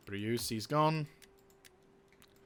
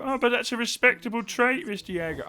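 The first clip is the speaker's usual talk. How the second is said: mock objector; 11 semitones higher, 5 dB louder than usual. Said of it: "you could argue".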